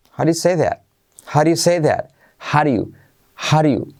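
"How do you" drilled as a clipped "haɾju"; rhythmic drill of "howdya say that"; repeat-after-me drill. Shown as a demonstration. Teacher leads students through the repetition drill. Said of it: "Repite conmigo".

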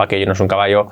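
aquello no es un caballo in a low monotone; without intonation. Shown as a demonstration. Teacher showing learners how not to speak, toneless. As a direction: drone aquello no es un caballo on one low note. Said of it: "no habléis".

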